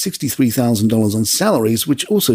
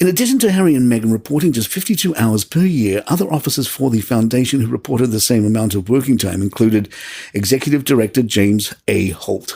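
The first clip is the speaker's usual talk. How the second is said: usual speaking voice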